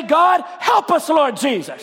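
slow, shouted plea; cry to God. Real, not acted. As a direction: call out to God from the pulpit. Preacher cries out in prayer.

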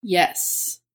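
ordinary talk

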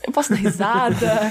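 slow, tentative, holding back a laugh; mock-uneasy, slowed-down question; hesitant question. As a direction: ask unsurely, drawing it out. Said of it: "você fica meio tipo".

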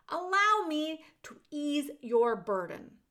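smooth talker baiting his mark; sly rat. Acted. Rat offers to ease the prisoner's burden, sly and smooth.

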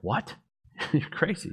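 half-laughing "you're crazy"; laughing disbelief. Retold or imitated. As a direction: scoff at the crazy idea. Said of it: "It's like".

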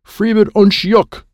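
high, slow yell in alien gibberish; Gloopy. A narrator's reading. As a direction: yell alien words across the field. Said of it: "Gloopy is yelling at Ignito".

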